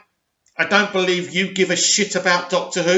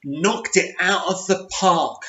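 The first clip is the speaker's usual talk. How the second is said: slow, sarcastic repeat of the praise; a hint of mockery at the critic; mocking quote; slower than usual. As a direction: drag the phrase out with scorn. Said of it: "according to Karen Gillan".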